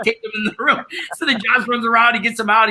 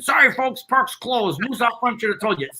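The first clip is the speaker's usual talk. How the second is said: lightly voiced comedy-film park guard; a hint of movie impression; 4 semitones higher than usual. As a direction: quote the guard's apology, a little higher. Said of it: "the character of, uh, National Lampoon's Vacation".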